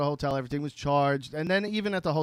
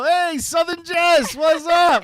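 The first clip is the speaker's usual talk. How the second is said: much higher, loud, slow Southern twang; hammed-up Southern greeting to his wife; Southern accent; 14 semitones higher, 10 dB louder, much slower than usual. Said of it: "I would look at her and go".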